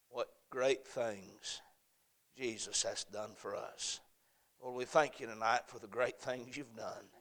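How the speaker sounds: steady, reverent pastoral prayer; earnest closing prayer. Acted. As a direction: pray it over the congregation.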